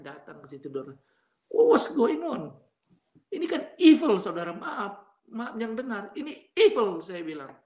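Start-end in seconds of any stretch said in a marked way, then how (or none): 1.5-4.2 high, loud protest, drawn out then emphatic; indignant outcry. Real, not acted. Father barred from his child's wedding, high indignant outcry. 6.1-7.0 high, louder burst of outrage; indignant condemnation. Real, not acted. Father condemning those who barred him, high indignant outburst.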